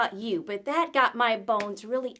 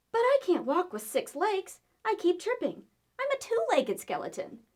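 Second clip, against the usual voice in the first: higher, complaining skeleton voice; frustrated skeleton; 7 semitones higher than usual. Acted. Skeleton complains to ants about extra legs, higher pitched. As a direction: fret about tripping on six legs. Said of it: "said Skelly".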